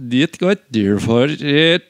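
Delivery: backwards talking. Pretend. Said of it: "Do your backwards talking".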